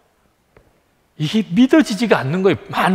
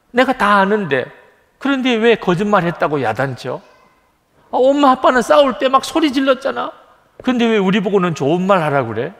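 put-on child's complaint; 5 semitones higher than usual. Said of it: "아이들 속에 생각이 계속 돕니다".

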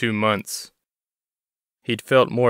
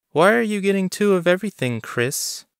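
much higher, quick, nosy woman's voice; Bonnie prying; 10 semitones higher than usual. A narrator's reading. Clerk Bonnie quizzing Chris about two orders, high quick prying voice. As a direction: poke at him with a playful question.

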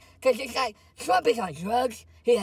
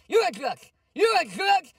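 louder, climbing accusation; accusing shout; 5 semitones higher, 4 dB louder than usual. Pretend. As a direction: jab the accusation harder. Rant at the president.

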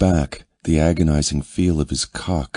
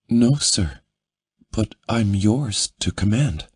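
higher, eager woman's voice; 6 semitones higher than usual. A narrator's reading.

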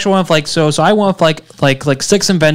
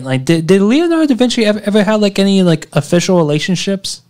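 excited; 6 semitones higher than usual. Real, not acted. Excited question about da Vinci.

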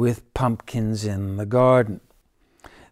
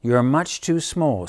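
snapping; 3 semitones higher than usual. Acted. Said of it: "snapped the cat".

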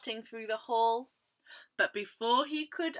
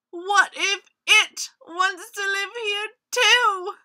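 high, loud anxious question; worried tiger; 9 semitones higher, 13 dB louder than usual. A narrator's reading. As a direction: ask it in rising storybook alarm. Tiger fears the approaching creature.

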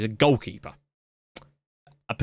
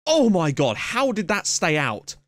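higher, drawn-out disbelief; astonished near-miss reaction; 4 semitones higher, slower than usual. Real, not acted. Gamer watching a corner somehow stay out, astonished.

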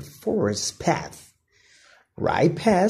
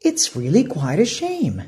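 Flynn; 4 semitones higher, faster than usual. Acted. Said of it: "said Flynn".

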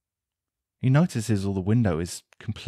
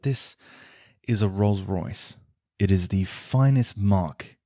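scoffing; slower than usual. Acted. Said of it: "in a scoffing manner".

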